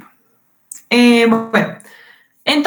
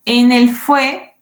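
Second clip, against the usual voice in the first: slow demo; much slower than usual. Shown as a demonstration. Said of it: "fue es una sílaba".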